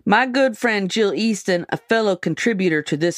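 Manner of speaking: lightly put-on rural Montana accent. Magazine excerpt read to friends in a mock Montana accent. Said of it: "I'm gonna do it in an accent".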